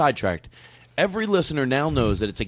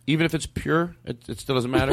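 a touch of hopeful vulnerability; vulnerable. Real, not acted. Host asking about trying a drug, mildly vulnerable. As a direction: ask it like you need reassurance. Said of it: "He sounded so vulnerable".

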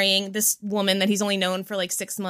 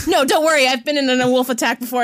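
Impression of a singer; 3 semitones higher, 4 dB louder, faster than usual. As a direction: boom it out like the singer. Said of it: "Seal is like".

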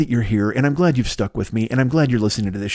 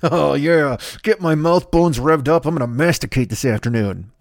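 mock hype voice. Mock guy relishing chewing.

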